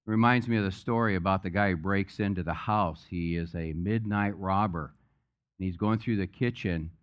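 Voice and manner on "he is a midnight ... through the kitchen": ordinary talk, nothing marked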